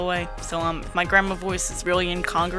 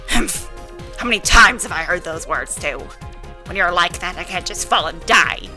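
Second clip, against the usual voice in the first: rowdy grandma; 3 semitones lower, 4 dB louder than usual. Acted. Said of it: "rowdy grandma voices".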